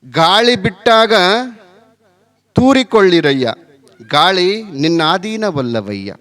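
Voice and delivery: slow, measured verse recitation; solemnly paced sacred verse; vachana recitation. Acted. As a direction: recite the verse slowly, drawing out each phrase.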